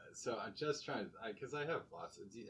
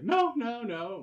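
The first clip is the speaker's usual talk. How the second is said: put-on Colombian accent; 12 semitones higher, 8 dB louder, slower than usual. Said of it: "she's like".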